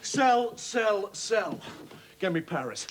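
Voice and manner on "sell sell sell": urgent repeated sell calls; trader shouting. Acted. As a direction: bark out the sell orders. Trader shouting orders on the floor.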